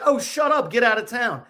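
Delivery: high, mock-shocked girlish squeal; hammed-up surprised girl; amazed disbelief. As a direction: imitate her playful disbelief. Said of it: "she's like".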